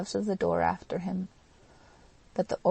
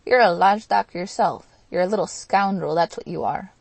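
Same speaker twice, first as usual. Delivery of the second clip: put-on loud drunken retort; heated shouted insult; angry retort; 10 dB louder than usual. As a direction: throw the insult back, loudly. Drunken quarrel with the Poles.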